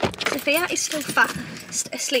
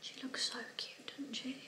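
hushed whisper; 23 dB quieter than usual. Real, not acted. Whisper near sleeping baby.

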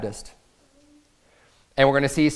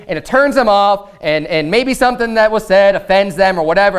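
raised, higher preacher's voice; emphatic preaching; 6 semitones higher than usual. Real, not acted. Preacher correcting people who call judging wrong, emphatic preaching. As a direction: press the point on the congregation.

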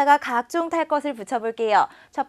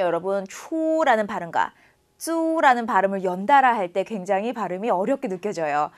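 ordinary delivery

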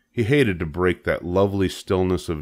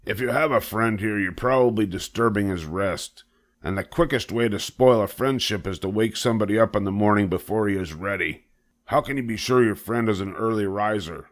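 lightly voiced disapproving old sheep; a touch of reproof from an elder sheep; scolding old sheep; 3 semitones higher than usual.

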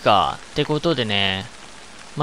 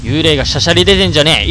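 angry scolding; 5 dB louder, faster than usual. Real, not acted. Scolding ghost.

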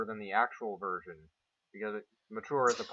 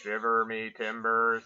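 slow, lightly voiced robot pirate; a hint of a dubbed pirate robot; 3 semitones lower, slower than usual. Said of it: "generic pirate phrases in a robot voice".

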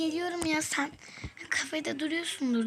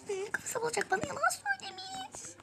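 indignant; 13 semitones higher than usual. Real, not acted. Angry at lying husband.

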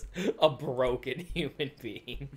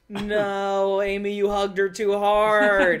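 laughing protest; 3 semitones higher, 6 dB louder than usual. Real, not acted.

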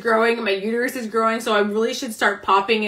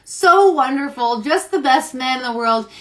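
tag sarcastic. Real, not acted. Sarcastic praise of uncaring husband.

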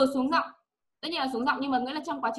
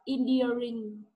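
slow model word; much slower than usual. Shown as a demonstration. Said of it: "Còn từ này nữa".

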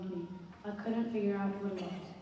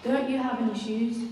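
shocked; 2 semitones higher, 7 dB louder than usual. A narrator's reading. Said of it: "I was shocked".

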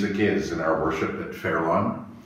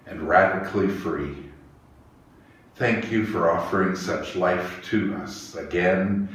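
prayer. Acted. Leads an opening prayer.

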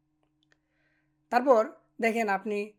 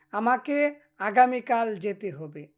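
slow and a little louder, each word clear; slow careful model sentence; 5 dB louder, slower than usual. Shown as a demonstration. Teacher modelling the sentence for students, slow and clear. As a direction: spell it out slowly for the learners. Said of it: "এভাবে আপনারা চর্চা করবেন।".

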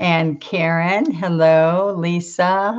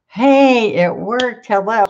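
high, loud happy hello; real surprised delight, pitched up; delighted greeting; 5 semitones higher, 4 dB louder than usual. Real, not acted. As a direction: burst out pleased that it worked. Delighted the live stream worked.

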